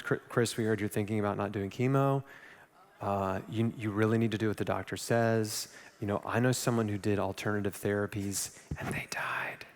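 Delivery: a hint of preachy concerned family; worried relatives.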